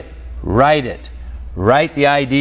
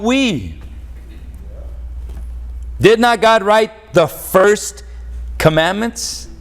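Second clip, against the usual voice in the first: raised, driving preacher's challenge; fiery preaching; 5 semitones higher than usual. Acted. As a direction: push the question at the congregation like a revival preacher.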